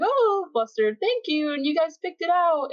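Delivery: put-on girl thanking for a swimsuit compliment, flustered. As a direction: act flattered and a little bashful. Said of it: "she's like".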